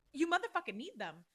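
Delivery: angry outburst. Real, not acted. Ranting at listeners about needing tampons, loud and angry. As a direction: hammer it home in a fury.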